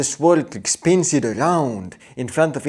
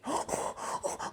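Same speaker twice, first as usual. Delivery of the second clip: sharp breathy gasp; excited gasp; 13 dB quieter than usual. Pretend. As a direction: gasp in mock delight. Girl's excited reaction.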